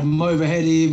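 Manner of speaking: "Mulvaheady" said in full, as others get it wrong; mispronounced surname. Shown as a demonstration. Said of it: "not many people get my surname right".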